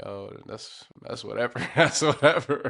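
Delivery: play-acted, offhand, spoken through laughter. Retelling walking past the crowd on the field: retelling own laughing remark. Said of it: "I'm just walking by laughing, like".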